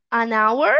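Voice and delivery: "an hour" linked as "a-nour"; silent H. Shown as a demonstration. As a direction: run "an" into "hour" with no H. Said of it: "pode ser mudo ou não".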